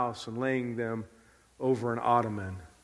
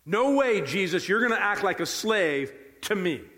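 adamant Peter; 4 semitones higher than usual. Acted. Peter to Jesus acting like a slave, adamant. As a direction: object forcefully, starting high. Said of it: "He said".

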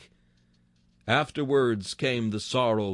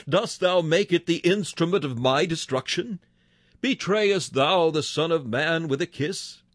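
higher, rising anguished appeals; faltering grief; 3 semitones higher than usual. Acted. Preacher voicing Jesus grieving over Judas's kiss, anguished. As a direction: plead with a wounded friend, voice catching. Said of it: "his voice faltered".

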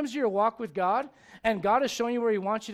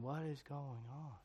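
inner panic; 7 semitones lower, 16 dB quieter, slower than usual. Retold or imitated. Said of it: "In my mind, I'm thinking".

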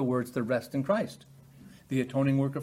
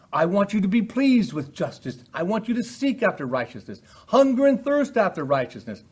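voice of God calling; 7 semitones higher, 6 dB louder than usual. Acted. Preacher quotes God's call.

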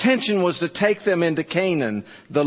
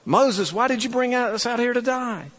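higher, whining grumble at Moses; lightly hammed-up complaint; mock whiny complaint; 8 semitones higher than usual. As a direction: whine it like a grumbling crowd. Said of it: "It's like".

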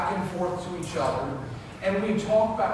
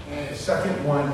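ordinary talk, nothing marked

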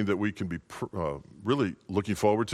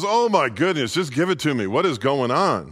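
high, frantic wife pleading; anxious young wife voice; panicked wife; 6 semitones higher, 5 dB louder than usual. Acted. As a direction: beg the pilot for news, voice pitched up. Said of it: "She goes".

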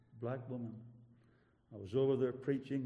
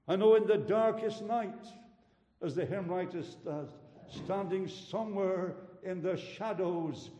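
raised pulpit voice with weighty stresses; fervent preaching; 4 semitones higher, 4 dB louder than usual. Real, not acted. Preacher assures congregation the Lord feels for them, fervent preaching.

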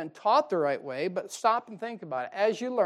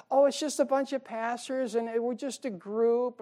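lightly voiced woman, pitched higher; retold casual woman; 5 semitones higher than usual. Preacher quoting camp woman explaining parachurch, lightly imitated.

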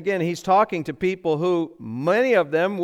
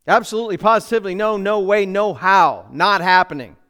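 emphatic refusal; 5 dB louder, faster than usual. Shown as a demonstration. Emphatic refusal illustrating word meaning.

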